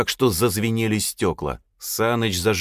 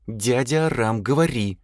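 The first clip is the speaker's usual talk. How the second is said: an urging push in the voice; pressing demand; 5 semitones higher than usual. A narrator's reading. Elsa presses uncle Aram to answer, insistent. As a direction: lean on him to speak up. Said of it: "нажала она голосом".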